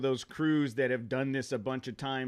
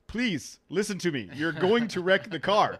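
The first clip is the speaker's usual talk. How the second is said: imitating a pleading co-driver, pitched up; trying to stay calm; 5 semitones higher, 6 dB louder than usual. Co-driver to reckless rally driver, trying to stay calm. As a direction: play forced calm, raised and insistent. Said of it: "trying to be calm".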